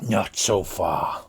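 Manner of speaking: put-on a hushed grim old man; headman. Headman answering the party, slow and hushed.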